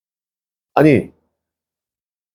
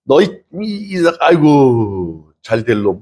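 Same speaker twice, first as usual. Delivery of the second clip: mother's fond scolding; much slower than usual. Pretend. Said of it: "근데 엄마가".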